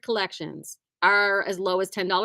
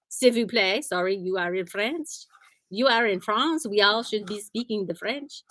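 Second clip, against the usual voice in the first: playful, badly faked French accent; terrible French accent. Teasing a friend vacationing in France, bad French accent. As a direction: put on a hammy attempt at a French accent. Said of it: "It's my terrible accent".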